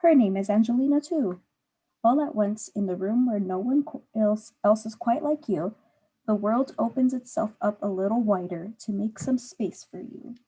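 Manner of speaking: put-on clear, gentle storybook reading for a young listener; reading to children. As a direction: read the story aloud to the child, unhurried. Teacher reads picture book aloud.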